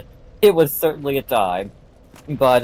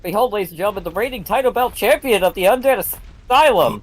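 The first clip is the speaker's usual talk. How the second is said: florid victorian lecturer; 4 semitones higher, faster than usual. Acted. Announcing a boss like a champion.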